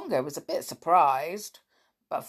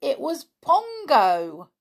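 excited; 9 semitones higher, 7 dB louder, slower than usual. A narrator's reading. Narrator's excited reveal.

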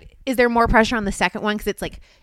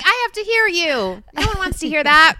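mock annoyed; 7 semitones higher, 4 dB louder than usual. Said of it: "You sound great".

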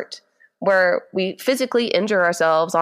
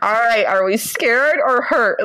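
slow, careful question with mild alarm; a touch of held-in worry; retold panic; 3 semitones higher, 3 dB louder than usual. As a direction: check on a child, lightly panicked. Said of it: "Like, panicking, hoping he's not saying hurt".

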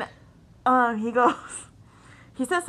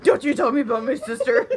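laughing re-quote; 4 semitones higher, 5 dB louder than usual. Retold or imitated. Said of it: "It was so funny".

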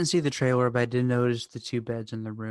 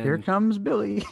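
announcer call; 8 semitones higher, 5 dB louder than usual. Acted. Announcing a character's entrance.

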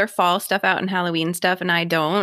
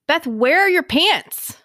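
higher-pitched mock yell across the street; retold neighbour's call; 8 semitones higher, 4 dB louder, slower than usual. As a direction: imitate a neighbour calling out in disbelief, drawn out.

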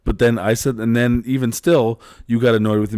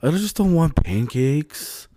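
put-on whining kid voice; 7 semitones higher than usual. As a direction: whine like a sulky boy. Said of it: "that's like his whining voice".

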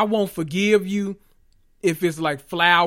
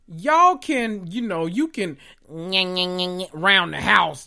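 a hint of Gina, slow and drawn out; quoting Gina; much slower than usual. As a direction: mimic Gina, stretching round the house. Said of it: "Gina told Pam on Martin".

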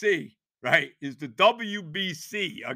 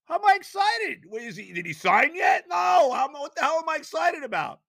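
outraged disbelief; 9 semitones higher than usual. Retold or imitated. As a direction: shout back at the coach in disbelief. Retold outraged reply to coach.

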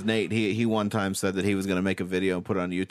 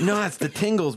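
mock high voice; 11 semitones higher, 3 dB louder than usual. High voice insisting, joking.

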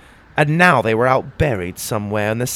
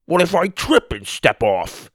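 croaked; 7 semitones higher than usual. Acted. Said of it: "Tim croaked".

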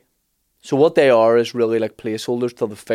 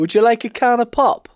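higher Belfast auntie voice, laughing; laughing Belfast imitation; Belfast accent; 11 semitones higher than usual. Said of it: "You saying that".

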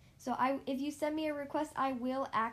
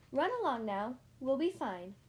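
kindly. Acted. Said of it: "Honeybunch kindly".

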